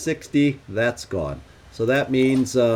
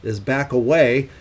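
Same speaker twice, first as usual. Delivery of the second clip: excited. Real, not acted. Enemy dropped, excited player.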